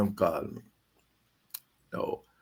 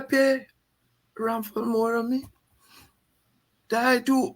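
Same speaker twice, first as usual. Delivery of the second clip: much higher retold leader's voice; the leader explaining Ramphal's pay to a young man, voice pitched higher; imitating Burnham; 12 semitones higher than usual. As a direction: play the boss admitting it frankly, high-pitched.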